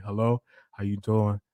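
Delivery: a hint of a low morning phone voice; low and easy, just woke up; retelling a phone call to his moderator in a deep morning voice. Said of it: "I asked her, I'm like".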